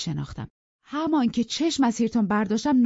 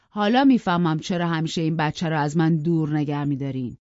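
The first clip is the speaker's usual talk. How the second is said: loud, raised raging threats; furious rant; 2 semitones higher, 5 dB louder than usual. Acted. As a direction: threaten them all in a drunken fury. Drunk father raging with knife. (فریاد خشمگین پدر مست رو به همه)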